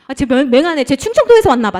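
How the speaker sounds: a retold crowd jeering at an outsider; mocking onlookers. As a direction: look down on the country bumpkin. City folk mocking a country man.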